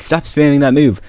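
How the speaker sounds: easygoing mock complaint; reasonable objection. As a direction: object mildly, as if laughing it off. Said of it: "like, the reasonable person that you think he'd be".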